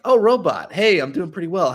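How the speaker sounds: high, loud pleased surprise; acted surprised greeting. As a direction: greet an unexpected big guest. Greeting a famous visitor on stream.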